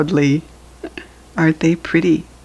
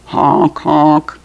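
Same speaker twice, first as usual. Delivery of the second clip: goose honk; 4 dB louder than usual. Pretend. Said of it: "The goose honked".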